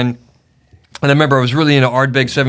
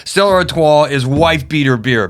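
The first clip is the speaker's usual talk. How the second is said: emphatic protest; 3 semitones higher than usual. Retold or imitated. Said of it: "And I'm like".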